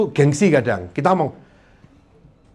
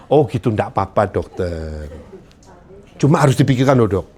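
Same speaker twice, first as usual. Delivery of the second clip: calm advice to doctor; 7 semitones lower than usual. Shown as a demonstration. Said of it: "panik ngomong".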